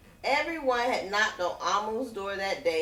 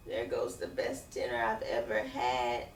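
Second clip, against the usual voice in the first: sad sigh; 9 semitones lower, 5 dB quieter than usual. Acted. Amu sad at empty pot.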